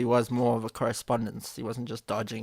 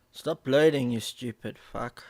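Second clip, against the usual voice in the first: sharp, louder snap at a frozen stream; frustrated shout; 4 dB louder than usual. Real, not acted. Streamer yelling at the frozen loading video, frustrated shout. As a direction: bark it at the screen like it's broken.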